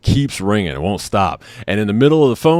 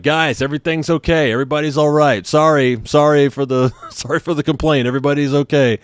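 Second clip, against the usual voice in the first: higher, apologetic calling through a door; retold placating call; 7 semitones higher than usual. Husband calling to guys through the door, retold placating. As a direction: placate them in a raised pitch.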